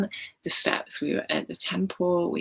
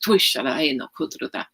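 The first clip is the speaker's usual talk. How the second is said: light language; 3 dB louder than usual. Acted. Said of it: "I actually speak light language".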